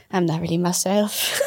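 put-on weird Italian accent. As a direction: lightly put on Italian, laughing. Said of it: "in, like, this weird Italian accent".

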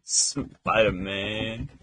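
very slow, drawn-out title read; trailer announcer. Pretend.

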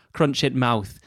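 put-on lightly done Yorkshire accent, blunt. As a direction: crunch in mouth in a mild Yorkshire accent. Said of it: "in a Yorkshire accent".

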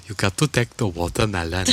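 loose attempt at his accent, vaguely Indian; badly faked accent. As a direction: imitate his accent, not quite landing it. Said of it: "trying to do an Indian accent".

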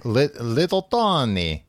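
halting attempt at a German accent; badly faked German, stumbling into the name. Podcaster trying to voice German villain Little Tony, bad German accent. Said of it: "I can't say Little Tony with a German accent".

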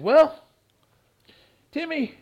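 high, drawn-out "Well, Timmy"; a hammed-up smooth talker; mock promoter voice. Boxer imitates the promoter answering his complaint, mocking.

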